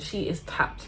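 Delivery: breathless whispered verdict; whispered aside. Retold or imitated. Repeating what the boy said about the girl, whispered. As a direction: whisper it like a secret.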